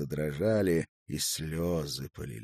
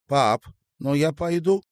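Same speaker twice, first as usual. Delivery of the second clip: put-on resolute girl; 10 semitones higher, 10 dB louder than usual. A narrator's reading. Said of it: "решительно освободила руку Таня".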